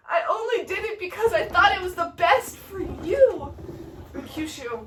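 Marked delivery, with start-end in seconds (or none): 0.1-3.5 high, pleading self-defence; half-laughing mock apology; Romeo's excuse. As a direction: plead that you meant well. Romeo excuses himself to Mercutio.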